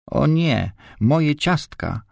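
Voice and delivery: high, drawn-out cry of dismay; okrzyk. A narrator's reading. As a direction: cry out high, stretching the words, without full volume. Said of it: "krzyknęła". (wysoki, przeciągły okrzyk)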